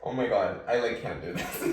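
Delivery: overcome, with a small tearful laugh; teary and overwhelmed; getting teary. Real, not acted. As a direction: give up, laughing through real tears. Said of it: "I'm, like, getting teary".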